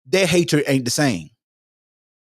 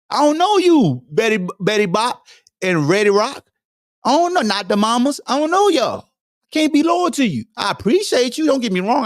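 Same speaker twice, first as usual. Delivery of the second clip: animated player voice; 7 semitones higher than usual. Acted. Player voice addressing fans.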